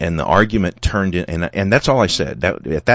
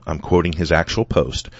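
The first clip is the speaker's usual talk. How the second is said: ordinary delivery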